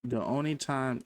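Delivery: talking around dental trays in mouth; slightly slurred with something in mouth; teeth cleaners in mouth. Real, not acted. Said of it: "sorry if I'm talking weird, I have, like, you know, the teeth cleaners in, in my mouth".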